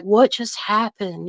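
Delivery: slow, dazed imitation of the young man; lightly voiced dazed young man; imitating his voice. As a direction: mimic his groggy puzzled way of talking. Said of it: "he talks kinda like that".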